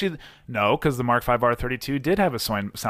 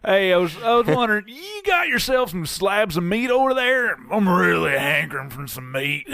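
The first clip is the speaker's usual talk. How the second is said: hick caller voice; 7 semitones higher than usual. Acted. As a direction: play a hungry redneck caller. Prank caller to butcher.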